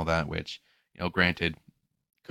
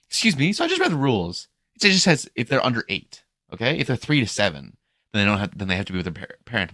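high, loud mock complaint; mocking angry mom; 5 semitones higher, 6 dB louder than usual. Angry mom confronting the lifeguard, mocking high voice. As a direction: lay into the lifeguard in a shrill mocking voice.

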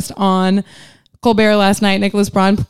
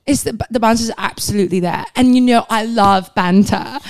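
put-on British accent. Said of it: "I think I do a good British accent".

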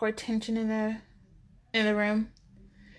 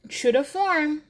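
joyful cry; 5 semitones higher, 4 dB louder, slower than usual. A narrator's reading. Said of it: "Calista cries".

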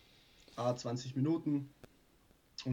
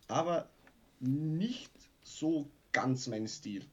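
whispering; much slower than usual. Real, not acted. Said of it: "soft aside".

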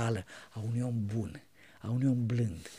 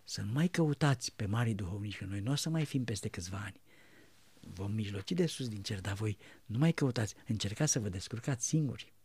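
soft counsel; 5 semitones lower, 8 dB quieter than usual. Retold or imitated. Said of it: "Și el îmi spunea".

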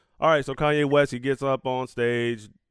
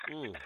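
satisfied sip and sigh; 4 semitones lower, 6 dB quieter than usual. Real, not acted. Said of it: "Let me take a sip of my coffee".

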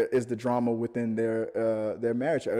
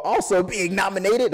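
voice crack; 6 semitones higher, 5 dB louder than usual. Real, not acted. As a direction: voice cracking on a word. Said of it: "you heard my voice crack for a second there".

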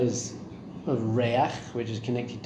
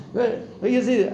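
put-on excited child voice; 9 semitones higher than usual. Boy in dinosaur headset.

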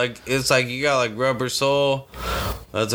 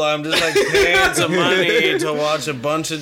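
words broken by real laughter; laughing while talking; 4 semitones higher than usual. Real, not acted. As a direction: laugh through the line. Laughing at strip club idea.

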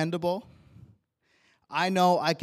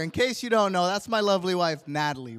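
proud introduction; 3 semitones higher, 6 dB louder, faster than usual. Real, not acted. Proudly introduces his wife.

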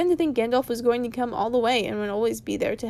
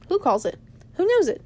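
Bilbo's alarmed high question; surprised Bilbo; 8 semitones higher, 4 dB louder than usual. Acted. Bilbo to Gandalf, startled high question. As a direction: voice jumps up on who knows it.

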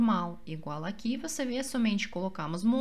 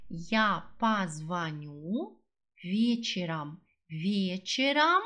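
bem devagar; slower than usual. Shown as a demonstration. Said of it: "professora repete devagar".

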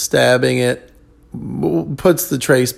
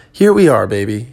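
playful flourish; 4 dB louder than usual. Real, not acted.

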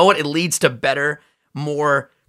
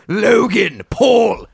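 laughing; 8 semitones higher, 4 dB louder, much slower than usual. Real, not acted. Laughing at the name.

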